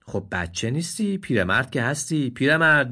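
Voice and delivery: mocking donkey. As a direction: poke fun at him. Donkey mocks the deer.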